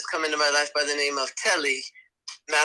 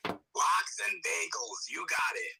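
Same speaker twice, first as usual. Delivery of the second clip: slow New York drawl; thick New York accent; 3 semitones higher, 7 dB quieter, slower than usual. Acted. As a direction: answer like a New Yorker. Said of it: "the New York accent".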